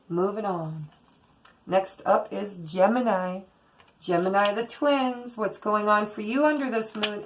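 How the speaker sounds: ordinary delivery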